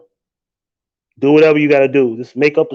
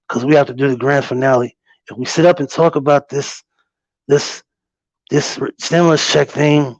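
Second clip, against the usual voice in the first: a light Trump impression, dismissive and rambling; lightly voiced Trump brushing Nancy off. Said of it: "Let me do it in my Trump voice".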